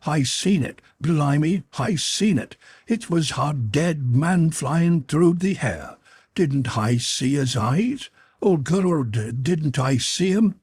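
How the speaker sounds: a man shaken to the core, insisting; terrified. A narrator's reading. Tippett insisting he saw a dead man fly, frightened and high. Terrified sailor after seeing apparition.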